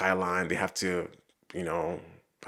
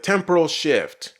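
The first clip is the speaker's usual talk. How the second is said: Dalek voice; 8 semitones higher, 6 dB louder, slower than usual. Retold or imitated. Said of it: "I think they said".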